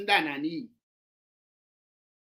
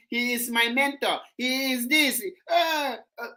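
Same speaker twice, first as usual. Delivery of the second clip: crocodile tears; 2 semitones higher than usual. Retold or imitated. Host mocking fair-weather supporters of the leader, fake tearful lament. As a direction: imitate false mourners wailing their regrets. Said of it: "all those crocodile tears".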